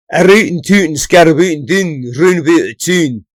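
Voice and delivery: lightly hammed-up Glasgow accent; mock Glasgow accent. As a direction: rattle it off like a Glaswegian having a laugh. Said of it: "Is that a Glasgow accent".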